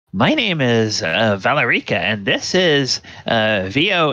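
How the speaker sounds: lightly voiced eager woman; chatty witch. One woman starts introducing the group.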